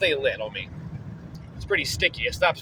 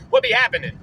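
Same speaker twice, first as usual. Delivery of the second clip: squeaky greeting; faster than usual. Acted. Playful greeting at very high pitch.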